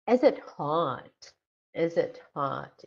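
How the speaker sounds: slow question with hot lifting at the end; rising question intonation. Shown as a demonstration. Teacher modelling be-questions, rising tune on hot. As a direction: raise the voice on hot.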